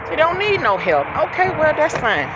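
high, incredulous echo of her words; mock disbelief. Driver echoing the passenger's refusal, high mock disbelief. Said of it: "I don't need no help".

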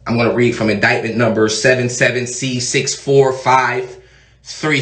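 a hint of a bored court clerk; mock court clerk. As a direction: drone the case numbers like a clerk. Mock reading an indictment.

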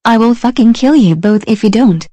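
furious threatening yell; angry shout. Acted. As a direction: scream the threat.

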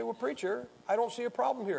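mock doubter. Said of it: "You say".

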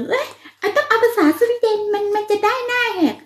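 mocking show-off viewers. Aunt mimics viewers testing her Swedish, in a high mocking voice. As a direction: ham up a sneering commenter. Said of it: "พวกคุณแบบเหมือนก็จะลองเชิง".

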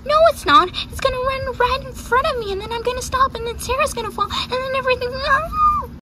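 very high, hammed-up worried horse voice; panicky fretting. Horse dreading the pony in front, high panicky whine. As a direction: fret in a high squeal.

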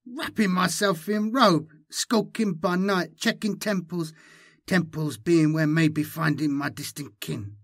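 high-pitched alien creature; high distorted hybrid voice; Malindi, inhuman voice. A narrator's reading. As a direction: speak high, as if over a twisted tongue. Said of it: "her voice was far from human".

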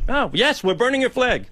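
imitating the Libyan man. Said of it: "he says".

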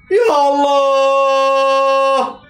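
a slow, aching moan over the miss; long anguished groan. Real, not acted. Fan groaning at a wasted chance, drawn out. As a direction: drag "يا الله" out in pained disbelief.

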